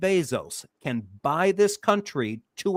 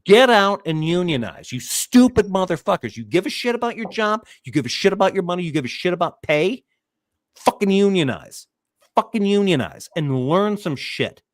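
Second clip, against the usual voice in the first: worked-up rant. Real, not acted. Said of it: "I'm getting worked up".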